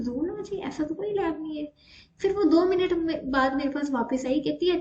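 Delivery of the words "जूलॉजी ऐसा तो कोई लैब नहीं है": a confused staff member not recognizing the word; puzzled staff member. Retold or imitated. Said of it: "वो कहती है".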